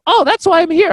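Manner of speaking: loud, high-pitched eureka moment; sudden realization. Retold or imitated. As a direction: burst out as it dawns on you.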